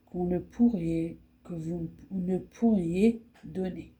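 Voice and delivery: reads a short poem aloud with measured phrasing; poem reading. Acted. Reading Maurice Carême's poem to viewers, as a recitation. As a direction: recite each line evenly, pausing between lines.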